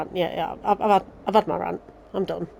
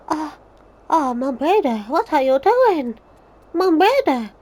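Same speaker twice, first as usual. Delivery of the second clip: higher, helpless mock cry of the name; mocking Minfilia; 7 semitones higher, slower than usual. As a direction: whimper the name like a useless bystander, hammed-up.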